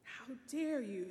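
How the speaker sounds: mild, haughty outrage; lady furious at the captain's reply; angry cry. Acted. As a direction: snap it back at him. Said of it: "she cried".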